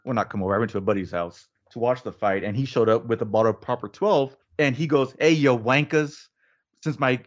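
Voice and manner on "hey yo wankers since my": imitating an Irish buddy, badly faked accent; horrible Irish accent. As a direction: greet the lads in a clumsy Irish accent. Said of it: "again, my horrible Irish accent".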